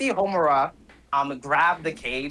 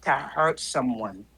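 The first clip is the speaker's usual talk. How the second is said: taunting villain. Acted. Game master plays taunting villain.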